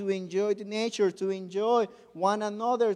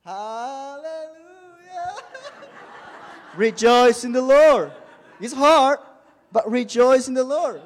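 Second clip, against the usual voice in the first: laughing through the words, high and loud; 5 semitones higher, 11 dB louder, slower than usual. Real, not acted. Preaching to the church, laughing at his own injury. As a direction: let the laugh spill into the praise.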